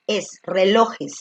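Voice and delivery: "relojes" slowly, with a clear stress on "-lo-" and a long final "-es"; correct form, slow. Shown as a demonstration. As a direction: stretch out the ending "-jes" of "relojes". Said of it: "se le añade al final E y S". ("relojes" lento, con "-jes" alargado)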